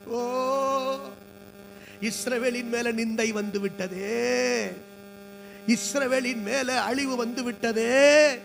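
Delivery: slow, drawn-out mock wail; acted lament. Preacher acts out all the people weeping over Israel, slow lament. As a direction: stretch the endings like a mourning crowd, hammed-up. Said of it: "சத்தமிட்டு அழுகிறார்கள்".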